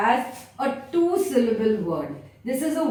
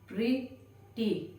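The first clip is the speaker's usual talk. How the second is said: "Pretty" said slowly and softer, syllables spread for the chin to move twice; slow syllable demo; 10 dB quieter than usual. Shown as a demonstration. Teacher showing class how to count syllables, soft slow "Pretty". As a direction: draw out "Pretty" gently so each beat is felt. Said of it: "say the word very slowly".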